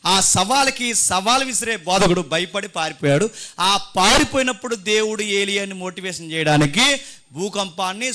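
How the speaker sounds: slow, emphatic pulpit storytelling; dramatic preaching. Real, not acted. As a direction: build the threat phrase by phrase. (నాటకీయంగా, నొక్కి చెప్పే ప్రసంగం)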